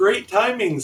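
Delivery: high voice on the edge of laughter. Replying to a newcomer answering the job placement ad, almost laughing. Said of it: "almost laughing".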